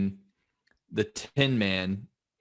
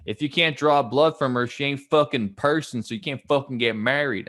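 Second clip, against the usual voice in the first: put-on Southern accent; 2 semitones higher than usual. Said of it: "I'm taking the Southern accent on that one".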